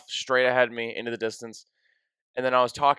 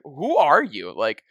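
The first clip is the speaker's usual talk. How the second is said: louder, laughing disbelief; incredulous laughing outburst; 3 semitones higher, 5 dB louder than usual. Retold or imitated. To a stranger comforting him, laughing disbelief. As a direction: blurt it out half laughing at the absurdity.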